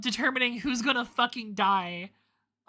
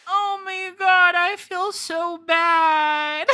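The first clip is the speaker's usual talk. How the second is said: loud dismay; 7 semitones higher, 7 dB louder, much slower than usual. Real, not acted. Reacts to betraying Luna.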